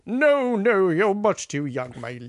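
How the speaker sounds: very slow mock-gallant let-down; impression of Ed. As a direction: let him down tenderly like an old gentleman. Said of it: "you do a great impression of me".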